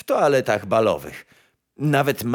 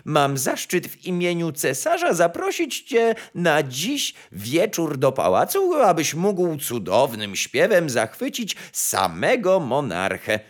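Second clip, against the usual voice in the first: raised, formal courtier voice; ceremonious chamberlain; 6 semitones higher than usual. A narrator's reading. Chamberlain inviting the nightingale to the palace, formally pompous. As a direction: deliver the invitation with pomp.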